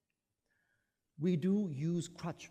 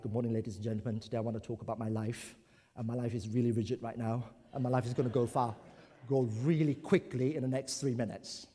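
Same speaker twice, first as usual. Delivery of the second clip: stiff speaker; 5 semitones lower, faster than usual. Retold or imitated. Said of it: "standing very rigidly".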